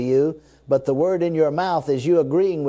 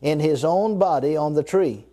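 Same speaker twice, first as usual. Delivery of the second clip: reading it slow. Shown as a demonstration. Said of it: "Now I'm gonna read it slow".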